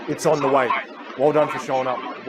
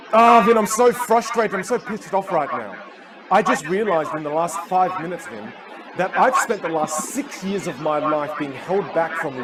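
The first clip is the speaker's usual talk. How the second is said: mildly exasperated imitation, higher voice; retold anger; 4 semitones higher than usual. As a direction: act out his frustration, not full force. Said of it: "he was so angry".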